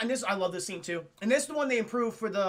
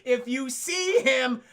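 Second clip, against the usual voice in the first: hammed-up Vader on the intercom, louder; mock PA announcement; 4 semitones higher, 4 dB louder than usual. Vader warns troopers over the PA, mock announcer. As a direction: announce it like a lazy tannoy call. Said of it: "went on the fucking P A system".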